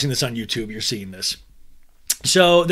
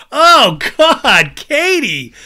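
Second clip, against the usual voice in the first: exasperated groan; 11 semitones higher, 10 dB louder, much slower than usual. Retold or imitated. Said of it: "And I'm like".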